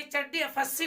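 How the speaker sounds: first letters fused into the word "चड्डी", then "एफ़ एस सी"; misread as चड्डी. Retold or imitated. Teacher imitating people misreading the bank's name as "चड्डी". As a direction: say "चड्डी" as one word with a doubled d. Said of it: "कुछ लोग पढ़ इसको".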